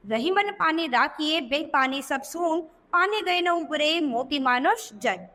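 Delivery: slow, measured couplet reading; unhurried recital of a Hindi couplet; verse recitation. Shown as a demonstration. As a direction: recite the doha slowly, line by line.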